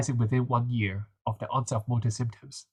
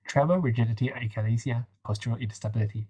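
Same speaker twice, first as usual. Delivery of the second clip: blocked-nose nasal voice. Real, not acted. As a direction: speak through a stuffy nose. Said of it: "forgive me for my nasal voice".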